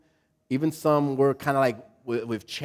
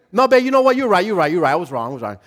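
hint of a fervent husband; 3 semitones higher, 5 dB louder, much faster than usual. Husband voiced eagerly apologizing to his wife, lightly voiced. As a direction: lay the apology on thick for her. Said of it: "wanna hear it like that".

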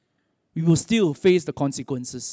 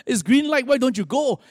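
higher-pitched mock disbelief; flabbergasted; 6 semitones higher than usual. Tourist to driver stopped at green, acted flabbergasted protest. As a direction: imitate a baffled passenger demanding an explanation. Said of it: "the tourist was flabbergasted".

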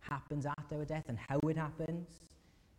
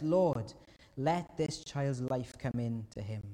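crying out to God; 5 dB louder, slower than usual. Acted. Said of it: "cried out".

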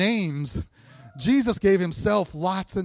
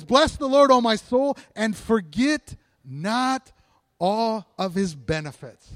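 raised opening, slowing to a measured close; psalm proclamation; 4 dB louder, slower than usual. Acted. Preacher reads verse two to the congregation, emphatic slow recitation. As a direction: ring it out, then draw out each word.

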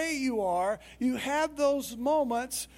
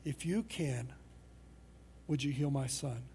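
disappointed father; 9 semitones lower, 8 dB quieter than usual. Retold or imitated. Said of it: "the disappointment in the father's voice".

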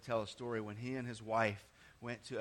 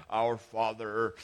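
slow, solemn, formal prayer voice; holy and regal; 4 semitones lower, 6 dB louder, slower than usual. Shown as a demonstration. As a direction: intone it like a grand liturgy. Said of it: "we tend to make that really holy and regal".

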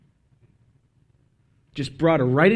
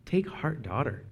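soft and gentle, with a lift on take; tender; 8 dB quieter than usual. Shown as a demonstration. Jesus comforting the healed woman, softly tender. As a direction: say it like welcoming her into the family. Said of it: "Just tender. Tender as the day is long".

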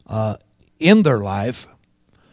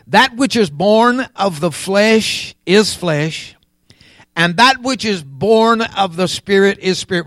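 raised, measured preaching voice; 5 semitones higher, 4 dB louder than usual. Real, not acted. Preacher setting spiritual things before the congregation, preaching. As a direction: preach it with emphatic phrasing.

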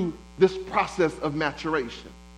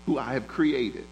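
voice of God; 5 semitones lower than usual. Acted. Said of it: "And God says".

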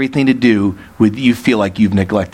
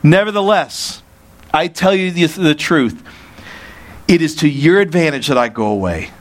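measured, raised reading of the verse; scripture reading; 3 semitones higher than usual. Shown as a demonstration. Preacher reads verse seven to the congregation, measured and raised. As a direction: read it out with weight. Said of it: "Verse seven".

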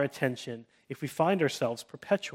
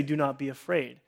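reassuring; 5 dB quieter than usual. Shown as a demonstration. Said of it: "a second tone in which someone can say".

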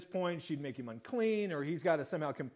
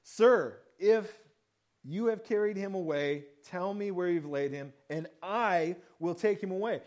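desperate plea; 4 dB louder than usual. Retold or imitated. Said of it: "We hear her desperation".

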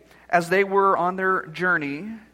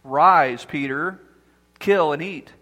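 deep, louder voice of God calling down; loud voice from heaven; 4 semitones lower, 3 dB louder, slower than usual. Acted. God commanding Peter from heaven, loud and low. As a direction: boom it down like a voice from heaven. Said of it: "there came a loud voice".

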